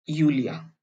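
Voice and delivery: यूलिया with a soft Y sound, not जूलिया with J; Yulia with a Y. Shown as a demonstration. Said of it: "अंग्रेजी भाषा में होता है जूलिया".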